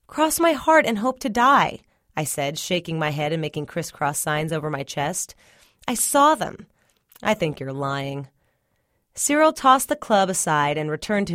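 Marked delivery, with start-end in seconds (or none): 0.1-6.7 pleading. Acted. Boy insists he's truthful. 7.2-8.3 dismissive. Acted. Brother dismisses boy.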